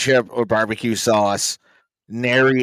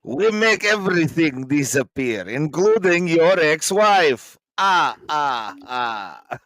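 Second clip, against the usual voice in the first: the Count impression; 2 semitones higher, slower than usual. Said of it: "you went from Polish to the Count real quick".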